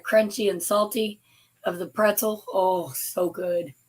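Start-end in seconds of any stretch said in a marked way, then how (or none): 2.5-3.7 savoring. Real, not acted. Savoring the pretzels.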